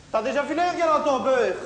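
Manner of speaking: teasing Gilbert in a high voice; high mocking voice. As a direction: needle him in a squeaky voice. Continued taunt, high voice.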